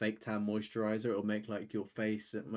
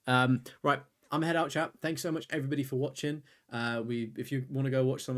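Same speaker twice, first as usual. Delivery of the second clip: loud sign-off; 4 semitones higher, 6 dB louder than usual. Real, not acted.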